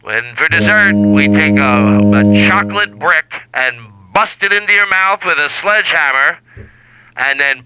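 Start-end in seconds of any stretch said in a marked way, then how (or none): 0.1-3.0 cruise announcer. Pretend. Host announcing the midnight buffet, slow hammy announcer. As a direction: sell it like a cheesy cruise ad.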